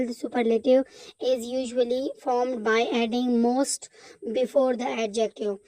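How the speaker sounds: slow textbook reading; reading aloud. Acted. Teacher reading the grammar rule to the class, slow and deliberate. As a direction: spell out the rule slowly.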